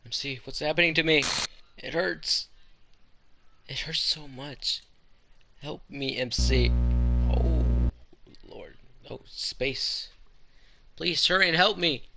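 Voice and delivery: Monika in pain. Acted. A deleted girl begs MC for help, pained and pleading. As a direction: cry out to MC that it hurts.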